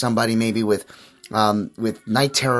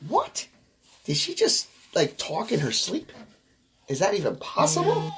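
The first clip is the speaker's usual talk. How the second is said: shocked disbelief; 7 semitones higher, 6 dB quieter than usual. Retold or imitated. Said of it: "I was like".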